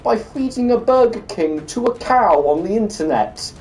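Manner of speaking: high, loud, mounting incredulous tirade; exasperated rant. Real, not acted. Gamer rants at his sibling Dickard in chat, high and loud.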